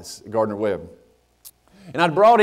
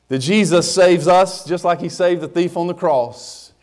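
full preaching; 2 semitones higher than usual. Acted. Pastor urging the church, in full preaching voice. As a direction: preach it home to the congregation.

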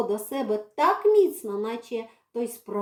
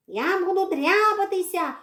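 high, sharp cat threat; threatening cat; 6 semitones higher than usual. Acted. Cat threatens to scratch the girl. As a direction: warn like a cornered cat. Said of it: "погрожував Редька".

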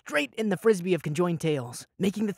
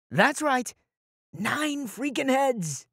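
aghast emphasis; 8 semitones higher, much slower than usual. A narrator's reading. Narrator aghast at monster.

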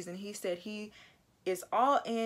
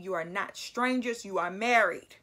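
imitating a stern pastor, landing louder on "married"; 5 dB louder than usual. Pastor setting the married couple straight, imitated stern tone. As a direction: lay it down firmly, punching the last words. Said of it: "in a very stern tone".

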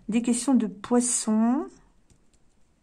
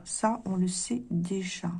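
repeated softly and slowly to herself; quiet slow self-confirmation; soft aside; 3 semitones lower, 7 dB quieter, slower than usual. Shown as a demonstration. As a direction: murmur it again under the breath. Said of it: "Bon, ça, on le sait déjà".

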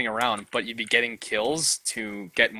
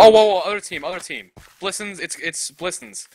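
startled alarm; 6 semitones higher, 6 dB louder than usual. Real, not acted. Spots enemy team.

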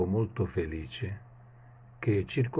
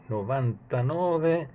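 disappointed; 6 semitones higher, slower than usual. Acted.

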